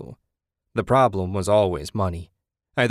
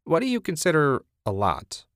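higher, teasing grin in the voice; sly, higher playful ask; grinning question; 7 semitones higher than usual. A narrator's reading. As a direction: tease her with a grin. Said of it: "Ted asked, grinning".

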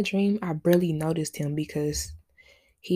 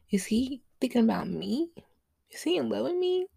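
dreamy wondering; 5 semitones higher than usual. Retold or imitated. Daydreaming aloud after waking.

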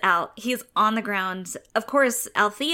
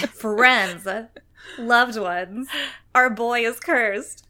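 delighted; 4 dB louder, much slower than usual. Acted. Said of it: "You sound so delighted".

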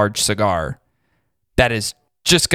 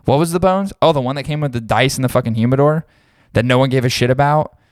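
confused smoker; 3 semitones higher, faster than usual. Retold or imitated. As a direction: play a clueless guy, pitched up. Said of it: "Most people are like".

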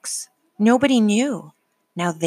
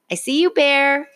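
calling out across the berry patch; raised voice to a friend who is hiding; 9 semitones higher, 5 dB louder than usual. A narrator's reading. Franklin calls out to Bear in the berry patch, raised voice. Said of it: "he called".

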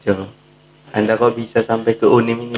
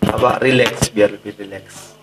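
talking around a cigarette; cigarette in mouth. Real, not acted. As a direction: speak with a cigarette between your lips. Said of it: "sambil merokok ya?". (bicara sambil merokok)

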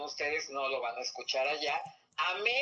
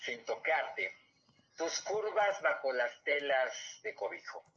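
poem reading. Acted. Reads her own love poem aloud.

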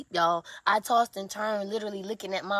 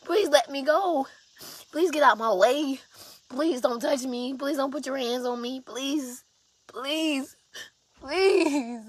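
higher, louder begging, please after please; pleading screams; 4 semitones higher, 3 dB louder, slower than usual. Retold or imitated. Retelling begging the attacker to stop, pleading loudly. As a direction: beg her to stop, voice raised and high. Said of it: "I was screaming to her".

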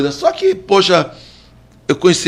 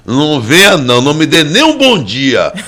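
louder cocky warning, slowed; loud boastful warning; 3 semitones higher, 5 dB louder than usual. Acted. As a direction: lay down the law, boasting.

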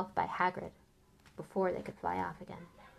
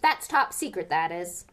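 proud Hagrid; 5 dB louder than usual. Acted. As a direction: rattle on proudly about his dog. Narrator voices Hagrid.

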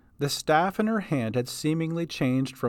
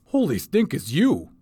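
blurted; 4 dB louder than usual. Acted. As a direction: blurt it out, caught off guard. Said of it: "he blurted".

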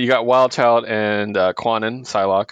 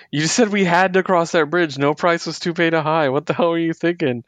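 raised-pitch mock exasperation; exasperated scolding; 6 semitones higher than usual. Teammate scolding over the bridge toll, mock exasperated.

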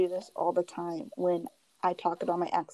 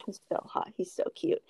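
gushing; 3 semitones higher, 5 dB quieter than usual. Retold or imitated. Teasing her boyfriend about her celebrity crush, gushing.

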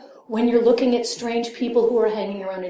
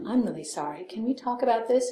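meek apology; 7 dB quieter than usual. Retold or imitated.

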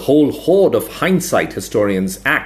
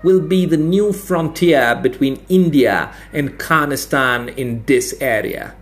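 a touch higher, slow and grand; declaring academic; 4 semitones higher than usual. A narrator's reading. Academic unveiling the new frontier, lightly voiced and grand. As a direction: announce it like a proud pronouncement. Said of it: "he declared".

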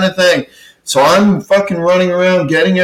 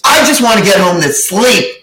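higher, mocking girly whine; whiny sound guy; 5 semitones higher than usual. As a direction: imitate a high-pitched whiny little guy. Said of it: "a high fucking, that high pitched".

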